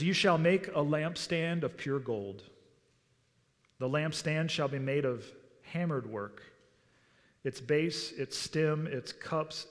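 measured, even reading aloud; scripture reading. Acted. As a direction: read the verses out solemnly, phrase by phrase. Reads scripture aloud to congregation.

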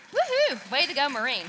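high, loud whoop of delight; cheering. Real, not acted. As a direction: whoop it up for the Marine. Cheering the story's ending.

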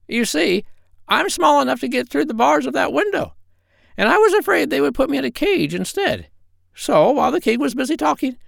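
very high squawky parrot; a proud, cheeky parrot. Acted. The parrot explains.

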